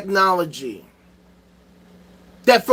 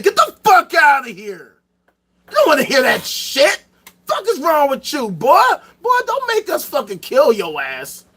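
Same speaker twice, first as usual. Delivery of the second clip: angry church elders; 4 semitones higher than usual. Retold or imitated. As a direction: ham up an outraged preacher chasing off a scientist. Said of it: "the fucking Catholic Church said".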